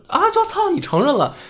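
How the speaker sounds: sudden high-pitched outburst of outrage; mock fury. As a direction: emperor exploding at Gao Yue with high-pitched mock rage. Voicing the furious emperor.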